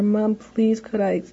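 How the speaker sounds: lightly voiced child asking politely. Shown as a demonstration. Child politely asking mom to stay up. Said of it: "maybe even asking here".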